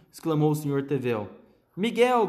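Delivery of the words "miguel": chamando o filho bem alto e agudo; grito aflito. A narrator's reading. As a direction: grita o nome, assustada. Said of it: "gritou a senhora Tevel". (mãe gritando pelo filho, aflita)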